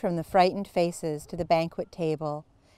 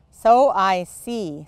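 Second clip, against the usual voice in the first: slow, loud and scornful; withering; 2 semitones higher, 7 dB louder, slower than usual. A narrator's reading. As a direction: let contempt drip off each word. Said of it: "said Miss Minchin witheringly".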